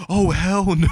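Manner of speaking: hammed-up cry of dread; mock alarm. Acted reaction to menacing pursuer.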